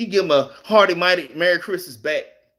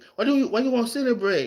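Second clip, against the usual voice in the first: put-on thick Colombian accent with raised pitch; 5 semitones higher, 3 dB quieter than usual. Imitating a girl from Colombia asking him a question, in a thick Colombian accent. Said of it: "She got a really thick accent".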